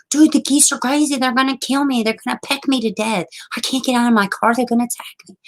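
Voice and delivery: high-pitched frantic retold protest; hammed-up fear, very high pitch; mock panic.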